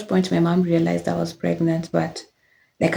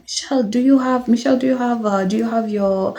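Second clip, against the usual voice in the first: imitating dad; 4 semitones higher than usual. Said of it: "he would be like".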